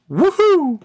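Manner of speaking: high, drawn-out whoop; celebratory woohoo. Real, not acted. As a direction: let out a high, slow cheer. Celebrating coming riches.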